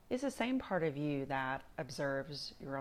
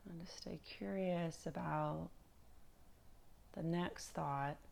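calm, unhurried meditation guide with long pauses; guided meditation; 5 dB quieter than usual. Acted. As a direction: ease them gently through body and breath, leaving space between phrases.

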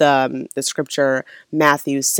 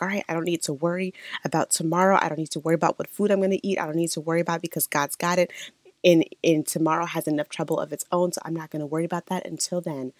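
offhand dismissal; 5 dB quieter, faster than usual. Acted. Acts out brushing off tomorrow's worries.

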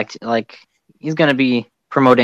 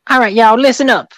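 brassy Brooklyn boss voice, pitched up; Brooklyn accent; 10 semitones higher, 4 dB louder than usual. Pretend. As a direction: bark it out like a tough Brooklyn boss. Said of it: "with a very strong, uh, Brooklyn accent".

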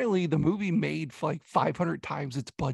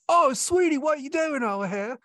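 mock British-tinged redneck accent, pitched way up; Britishy redneck accent; 11 semitones higher, 5 dB louder than usual. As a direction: ham up a confused British-redneck accent, squeaky and loud. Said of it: "the most Britishy, rednecky accent".

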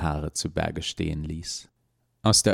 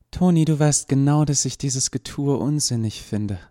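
annoyed; 7 semitones higher, 3 dB louder than usual. Acted. Lucy annoyed at Toni.

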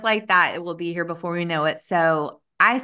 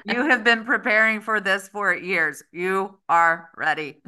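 bullhorn with siren. Shown as a demonstration. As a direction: announce it like a bullhorn. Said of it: "a megaphone voice".

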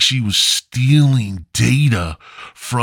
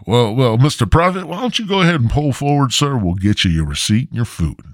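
put-on chipper white kid; 4 semitones higher, faster than usual. Comic imitating the clerk sending him forward, high and eager. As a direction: gush like an overeager employee. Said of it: "he's all chipper and sounds very white".

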